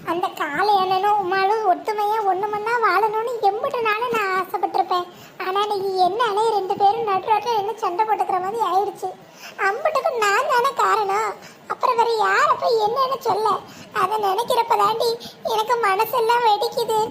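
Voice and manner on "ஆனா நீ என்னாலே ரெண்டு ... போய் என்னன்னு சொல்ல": guilty crying with a catch in the voice; tearful. Acted. Woman weeping to her friend over the fight she caused. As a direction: sob out the self-blame. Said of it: "அதுக்கே இப்படி அழுகுற?".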